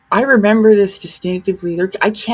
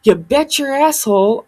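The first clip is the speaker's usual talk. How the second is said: higher-pitched, lightly imitated catchphrase; Jordan Sather; 5 semitones higher than usual. Retelling a funny line from his video, lightly imitated. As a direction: lightly mimic someone's emphatic assurance, pitched up. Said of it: "He goes".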